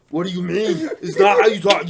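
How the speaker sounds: mock shout. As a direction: bark it like an angry Arnold. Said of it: "he's gonna be like".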